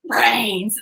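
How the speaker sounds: whispered brains, right at the ear; a child whispering zombie words. Retold or imitated. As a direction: breathe it into her head like a zombie. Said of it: "she goes".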